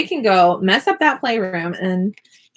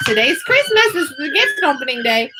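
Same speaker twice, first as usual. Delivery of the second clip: imitating the kids; 4 semitones higher than usual. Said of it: "they'll think".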